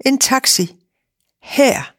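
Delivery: high, mocking disbelief; laughing disbelief at a silly request; incredulous. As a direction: scoff at the very idea of a taxi. Big lady mocks taxi request.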